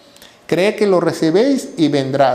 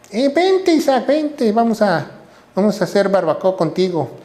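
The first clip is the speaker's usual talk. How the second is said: put-on much higher, breezy teasing call to a boy; playful Abraham; 3 semitones higher than usual. Preacher voicing Abraham calling Isaac to the altar, high and mockingly cheerful. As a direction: call the son over like it's a cookout.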